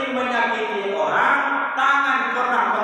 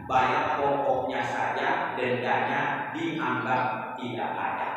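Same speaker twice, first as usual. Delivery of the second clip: lower, slow public announcement read; mock official announcer, slow and lower; 7 semitones lower than usual. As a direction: read it out like the tax office notice, lower and slower. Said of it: "Samsat Ujung Batu mengumumkan".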